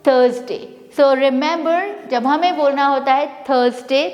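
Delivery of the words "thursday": teacher's model THURZ-day; correct Thursday. Shown as a demonstration. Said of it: "This is called".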